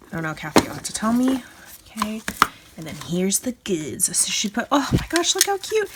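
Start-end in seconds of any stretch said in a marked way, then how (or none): 4.7-5.9 delighted squeal. Real, not acted. Delighted at handmade charms.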